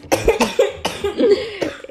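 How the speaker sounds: sick cough; coughing fit. Real, not acted. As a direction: cough hard.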